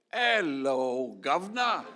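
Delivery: loud, lilting Hello governor; loud mock greeting. Friends greeting a cathedral loudly. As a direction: call it out like a cheery tourist. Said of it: "they'd look at it and they'd say".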